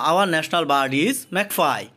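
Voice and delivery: Our national bird is magpie, each word drawn out very slowly; slow demo reading. Shown as a demonstration. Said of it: "এজন্য এটা হয়েছে আওয়া". (খুব ধীরে ধীরে, শব্দ আলাদা করে পড়া)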